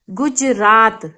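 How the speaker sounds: teacher's गुजरात with a quick गु; short u. Shown as a demonstration. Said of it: "एकदम छोटा सा sound आया ऊ का".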